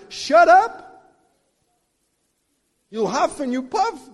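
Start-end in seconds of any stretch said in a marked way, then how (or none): 0.1-0.8 much higher, loud shout at the enemy; defiant shout. Retold or imitated. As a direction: shut the devil down. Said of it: "I'm like".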